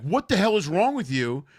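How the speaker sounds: loud, high, slow mock fury; hammed-up furious demand; angry outrage. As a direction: yell it like the guy who just got kicked. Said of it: "the guy would be like".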